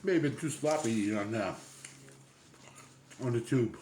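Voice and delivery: talking through a mouthful; words round a bite of sandwich; mouth full. Real, not acted. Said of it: "it's a little hard to talk with your mouth full".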